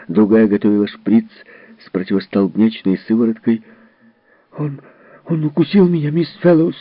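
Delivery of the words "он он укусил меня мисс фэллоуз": high, breathless angry shout; a furious little boy complaining; angry child shout. Acted. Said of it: "задыхаясь от злости, крикнул Джерри". (высокий злой детский крик)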